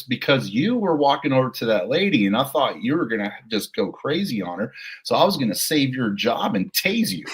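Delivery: cheery British partner greeting a colleague; mock British accent. British partner answering her colleague, breezy mock British. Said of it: "and she's British".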